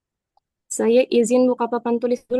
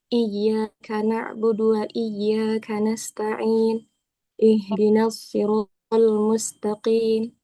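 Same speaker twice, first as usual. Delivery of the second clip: Quran recitation. Acted. Recites Al-Fatihah before lesson.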